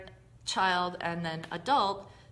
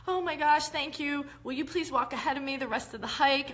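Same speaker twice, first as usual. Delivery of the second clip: high, grateful pleading; clingy child state; 5 semitones higher than usual. Retold or imitated. Hiker thanking friend Robin, high clingy child voice. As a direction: thank her like a dependent child. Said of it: "I could indefinitely stay in a child state".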